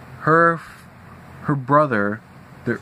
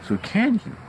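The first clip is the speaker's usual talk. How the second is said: polite request; 9 semitones higher than usual. Retold or imitated. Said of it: "I asked politely".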